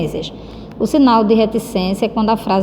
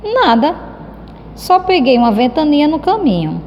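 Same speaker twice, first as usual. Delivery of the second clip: a hint of a shrugging boy, higher; indifferent reply; 5 semitones higher than usual. Shown as a demonstration. Teacher voicing Cebolinha dismissing Mônica's question, offhand. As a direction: brush the question off as if nothing happened.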